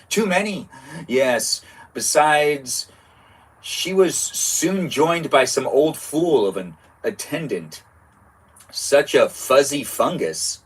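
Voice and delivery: slow, lightly acted witch complaint; a hint of a sneering witch; lightly voiced gossiping witch. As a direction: witch telling her boss about the attendant. Continues witch dialogue read.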